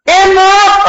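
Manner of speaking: high-pitched astonished question; retold shock. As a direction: act out stunned disbelief. Guests learn of the death.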